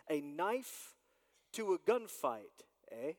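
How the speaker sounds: a light, half-hearted hint of the actor's voice; Sean Connery impression. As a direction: mimic the famous actor, only slightly off the own voice. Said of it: "That's my best impersonation right there".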